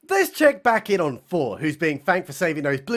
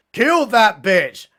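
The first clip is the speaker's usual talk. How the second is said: drawn-out, louder order; mock command; 2 semitones higher, 5 dB louder, much slower than usual. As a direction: give a slow, emphatic mock command. Ghost's order voiced in recap.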